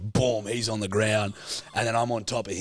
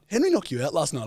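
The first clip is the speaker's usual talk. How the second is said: put-on high, louder gossiping kids; teasing schoolmates; 8 semitones higher, 3 dB louder than usual. Schoolmates repeating Henry's lie, high and loud.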